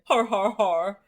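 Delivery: mock laugh in hearty, punched syllables; spelled-out stagey laughing; old-movie laugh. Teacher imitating an old movie's laughter, mock hearty laugh. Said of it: "an old movie when they're laughing".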